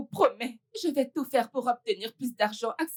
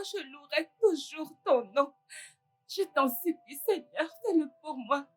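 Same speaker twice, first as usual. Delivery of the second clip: tearful prayer. Acted. Mother praying for her son.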